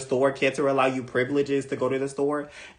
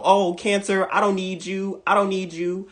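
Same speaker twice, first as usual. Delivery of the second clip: mock defiant brush-off; 7 semitones higher than usual. Voicing defiant partner talking back.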